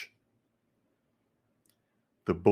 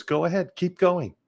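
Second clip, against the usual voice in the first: higher, louder mock encouragement; urging bully on; 9 semitones higher, 5 dB louder than usual. Father urging the bully to keep going, higher and louder. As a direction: egg the bully on, loud and careless.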